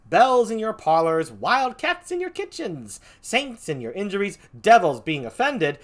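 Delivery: theatrical, swinging tirade; Iago. Acted. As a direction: reel off the list, punching each item. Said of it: "Here's Iago".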